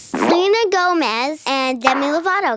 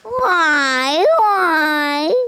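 a hint of a whiny nerd; lightly voiced nerd whine; nerdy voice; 2 semitones higher than usual. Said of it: "you wanna do the Clayton voice".

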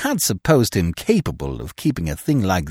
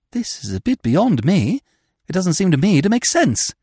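high, wavering protest; plaintive; 7 semitones higher than usual. A narrator's reading. Freddy protests Eve's plan is beyond him, plaintive. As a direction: complain helplessly in a higher voice. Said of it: "he said plaintively".

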